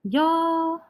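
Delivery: high, drawn-out mock-exasperated call; mock upset. Teacher teasing students for answering ahead, mock upset. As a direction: feign being upset, pitched well up. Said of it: "when I get upset".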